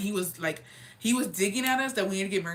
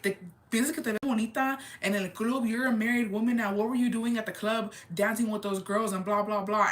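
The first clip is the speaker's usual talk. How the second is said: retold dad's telling-off, pitched up; mock scolding; 4 semitones higher than usual. Dad scolding his married daughter over the club, mock scolding. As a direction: imitate a disapproving parent, voice lifted.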